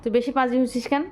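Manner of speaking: light pretend telling-off; mock scolding a pet. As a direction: scold the naughty cat, not really angry. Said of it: "ধমক দাও তো". (বিড়ালকে হালকা মিছে ধমক)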